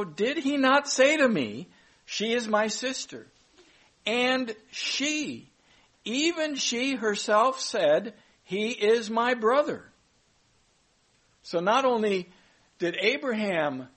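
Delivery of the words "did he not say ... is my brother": higher, pleading king protesting innocence; a lightly voiced king, raised in pitch; pleading Abimelech. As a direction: protest to God, voice lifted higher. Abimelech pleads to God in dream.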